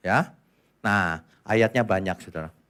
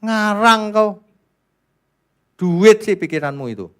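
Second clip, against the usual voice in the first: scornful rebuke; 8 semitones higher, 5 dB louder than usual. Real, not acted. Preacher scolding false teachers.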